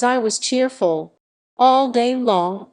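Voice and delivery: storyteller savours the cheerful last line. A narrator's reading. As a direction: land the happy ending broadly and slowly. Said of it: "repeated build to happy ending".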